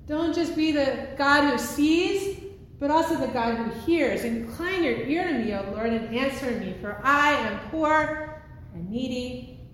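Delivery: earnest prayer, rising at the start; pleading prayer. Acted. Hagar praying to God for her son, pleading prayer. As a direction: press the plea, then settle. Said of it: "her lips formed a prayer".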